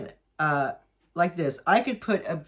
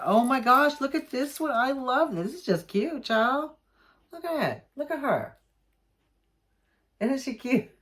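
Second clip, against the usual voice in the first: much higher, squealing over something cute; gushing excitement; 7 semitones higher than usual. Real, not acted. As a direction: coo like you've found a treasure.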